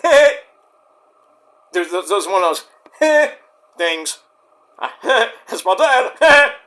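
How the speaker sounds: giggling through the words; mock daughter voice, laughing. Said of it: "you see Ava go".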